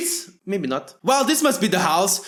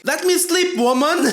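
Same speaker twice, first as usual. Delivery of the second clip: cheeky talkback; 5 semitones higher than usual. Acted. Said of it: "If I talk like that with my mom".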